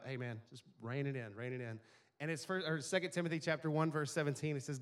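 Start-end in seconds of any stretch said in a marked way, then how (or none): 0.0-1.8 put-on lower, softer calming voice to a scared boy; father soothing his son at bedtime, soft. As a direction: settle a frightened child gently. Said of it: "it helps him just to kind of".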